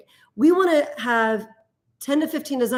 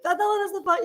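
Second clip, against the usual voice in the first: giggling through it; 9 semitones higher, faster than usual. Real, not acted. Wife tries to finish the line while laughing, slowed.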